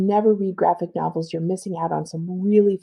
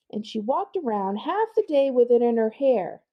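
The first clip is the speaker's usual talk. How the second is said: higher voice reading the speech bubble; character voice; 5 semitones higher than usual. Acted. Librarian reads the bubble in a higher kid voice. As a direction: voice the gossiping kid. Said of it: "I'm just gonna pause".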